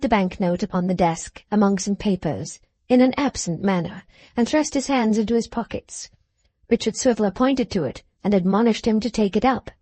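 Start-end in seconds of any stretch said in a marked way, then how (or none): none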